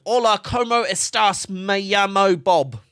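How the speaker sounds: slow, high mock classroom Spanish accent; imitated learner's Spanish accent, high and slow; imitating classmates' Spanish accent. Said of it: "everyone was, like, speaking Spanish, going".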